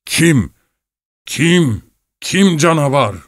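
high, startled questioning. A narrator's reading. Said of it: "İhtiyar yüksek sesle".

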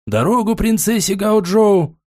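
slow, high ceremonial call; herald's cry. A narrator's reading. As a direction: announce it like a herald. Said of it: "постоянно выкрикивающий слуга глашатай". (торжественный выкрик глашатая)

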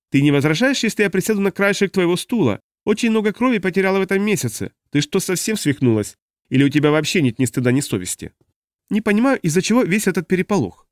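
put-on high, breezy warrior girl; Makri, casual. A narrator's reading. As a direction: chat without a hint of shame. Makri speaking.

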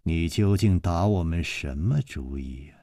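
low, slowed, quiet stern questioning; young mistress grilling him coldly; stern woman's voice. Acted. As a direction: glare and interrogate him. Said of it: "施少奶奶狠狠地盯着他".

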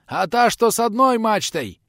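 usual speaking voice

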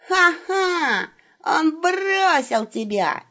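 high, slow mock-gloating robber; the wolf gloats as a fake robber; gloating howl. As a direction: jeer at the abandoned victim. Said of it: "злорадно завыл Серый".

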